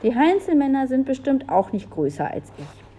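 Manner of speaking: put-on mildly angry little-boy voice; cross little boy. A narrator's reading. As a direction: argue back like a cross child. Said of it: "widersprach Olli böse".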